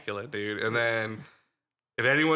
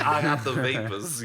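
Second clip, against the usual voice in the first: a laughing mock belle, a touch louder; Southern belle voice; 2 semitones higher, 3 dB louder than usual. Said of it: "A Southern belle".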